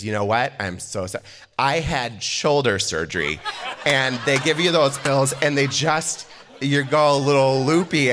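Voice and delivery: imitated South Dakota accent, rambling drunken apology; hammed-up South Dakota accent; thick South Dakota accent. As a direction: play a loopy South Dakota mom making excuses. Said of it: "she has a very thick accent".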